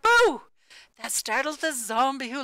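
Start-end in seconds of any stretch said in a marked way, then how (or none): 0.0-0.5 loud, high spooky Boo; jump-scare shout of Boo; ghostly shout. A narrator's reading. Ghost scaring the zombie, a loud high shout. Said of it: "the ghost who shouted out".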